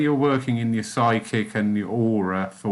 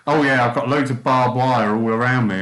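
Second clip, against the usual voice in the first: breezy quote; 5 dB louder than usual. Retold or imitated. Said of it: "They said about".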